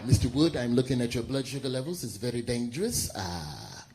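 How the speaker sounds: mother him gently about the candy; tender nurse. Acted. Black woman nurse voiced.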